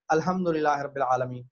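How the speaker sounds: imitating inattentive reciters; careless mispronunciation. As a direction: run through الحمدللہ without the pharyngeal ح. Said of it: "تو وہ یوں ہی کہہ دیتے ہیں".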